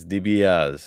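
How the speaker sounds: "DiBiase" drawn out as dee-bee-AHZ; slow "DiBiase", final vowel dropped to end on Z; Italian-style pronunciation. Shown as a demonstration. Co-host trying the Italian surname, drawn-out "DiBiase" ending in Z. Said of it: "it's not pronounced that way".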